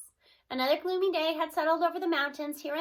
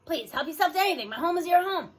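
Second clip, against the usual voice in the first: louder, nervous but delighted skunk; eager skunk voice; 3 semitones higher, 6 dB louder than usual. Acted. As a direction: welcome the guests warmly and eagerly. Skunk offers her home.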